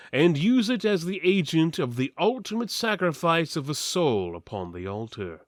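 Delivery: plain reading voice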